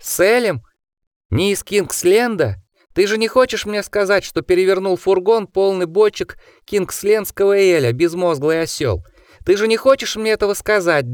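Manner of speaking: shrill, raging high-pitched rant; high furious voice. A narrator's reading. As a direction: rage at a fool, voice climbing. Osmond raging at the driver.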